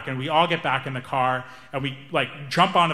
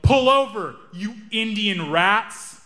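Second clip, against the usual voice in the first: mock yell; 5 semitones higher, much slower than usual. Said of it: "he yelled".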